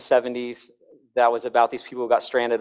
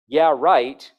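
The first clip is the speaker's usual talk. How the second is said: sarcastic yeah right; 4 dB louder than usual. Shown as a demonstration. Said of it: "by my tone of voice".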